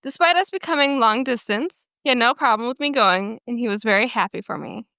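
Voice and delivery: measured story narration in even phrases; reading aloud. Acted. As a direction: read someone's written post to listeners. Reads a Reddit post aloud.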